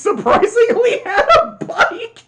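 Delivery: loud, high, laughing through the words; real laughter breaking into speech. Real, not acted. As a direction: crack up while talking. Cracks up recalling the intro.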